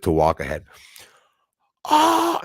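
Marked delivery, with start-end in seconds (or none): 1.9-2.4 short high-pitched imitated scream; mock scream. Neighbor shrieking at the sprayed hose, mock high scream. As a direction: imitate her sudden shriek, high and loud. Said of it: "And she started screaming".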